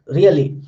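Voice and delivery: "really" said slowly with a falling pitch. Shown as a demonstration. Teacher demonstrating falling intonation, "really" falling in tone. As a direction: let "really" drop in pitch. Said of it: "it's in the falling".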